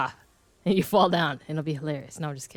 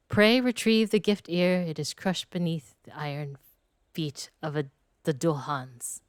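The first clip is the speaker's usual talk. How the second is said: lightly voiced refined noble, measured; narrating posh character. Gamer voicing a gracious noble NPC, measured and refined. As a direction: read it as a gracious aristocrat.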